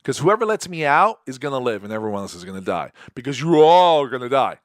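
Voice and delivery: a mock menacing threat; lightly acted threat, rising to a loud last line; retelling a villain's threat with mild menace; threatening. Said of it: "this guy's threatening pretty good".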